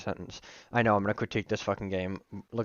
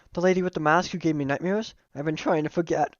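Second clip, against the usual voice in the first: slightly higher-pitched character voice; mildly fretful, raised pitch; Miriam; 5 semitones higher than usual. Acted. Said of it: "switch to my slightly higher pitched voice when I'm doing her".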